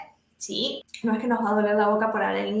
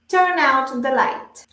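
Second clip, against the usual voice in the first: slow, deliberate model phrase; measured language-teacher read-aloud; shadowing model reading; 4 dB louder, slower than usual. Shown as a demonstration. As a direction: read it slowly for learners to repeat. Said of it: "yo leo las frases y ustedes repiten".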